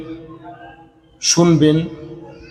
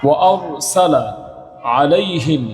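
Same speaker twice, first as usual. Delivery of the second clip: slow, drawn-out tajweed chant; Quran recitation; slower than usual. Shown as a demonstration. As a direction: recite each word slowly with long vowels as a model. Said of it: "আমি আপনাদেরকে দেখাচ্ছি".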